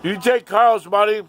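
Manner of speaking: high, loud shouted question; calling out. Retold or imitated. Aunt asking her son about the money, calling out. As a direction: holler the question upstairs.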